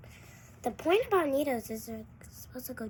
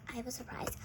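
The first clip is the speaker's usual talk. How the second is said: secret surprise whisper; breathy hush, teasing a secret; 7 dB quieter, faster than usual. Pretend.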